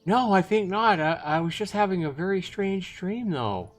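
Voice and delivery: put-on high, agitated girl's voice; flustered denial. Girl flustered after waking from dream.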